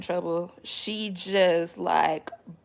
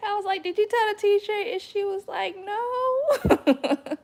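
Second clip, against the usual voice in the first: high, laughing mock-interrogation; laughing high questions; 13 semitones higher, 4 dB louder than usual. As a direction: ask through giggles, pitch way up. Laughing mom questioning daughter.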